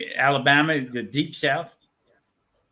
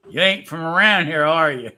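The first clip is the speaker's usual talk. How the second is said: mock southern jeer; 7 dB louder than usual. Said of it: "kept looking at me and saying".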